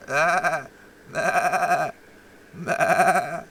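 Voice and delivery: breathless high laughter, cracking up; laughing fit. Real, not acted. Host cracks up at his own joke, laughing hard. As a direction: laugh it out, can't stop.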